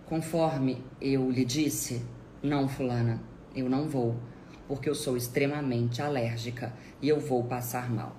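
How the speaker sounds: patiently stonewall with identical intonation; unmoved verbatim repetition. Shown as a demonstration. Repeating her refusal to the insistent relative, unmoved. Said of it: "repetir inclusive a entonação".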